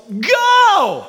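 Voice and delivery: high, loud shouted command; coach yelling go. Retold or imitated. Coach yelling at player to run, loud shout. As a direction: bark it down the court. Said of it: "my coach yells".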